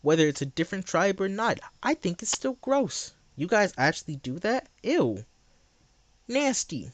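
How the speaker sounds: talking while chewing gum. Real, not acted. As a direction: gum in the mouth. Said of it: "I didn't have gum in my mouth".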